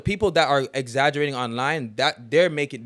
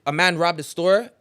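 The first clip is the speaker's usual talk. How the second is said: Toronto slang story; 2 semitones higher than usual. Retold or imitated. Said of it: "You'd be like".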